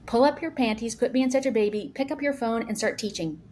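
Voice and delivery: tough-love mock order to quit whining; sassy Gary Vee. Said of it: "He's real sassy".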